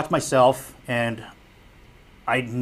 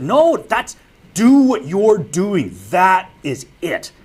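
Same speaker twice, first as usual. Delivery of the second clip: insistent reply; 5 semitones higher, 6 dB louder, slower than usual. Retold or imitated. Audio guy insists.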